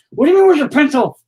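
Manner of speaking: loud, high-pitched parental disbelief; fed-up parent raising the voice; real exasperation. Real, not acted. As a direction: throw the question back, loudly exasperated. Parent exasperated over lost pencil.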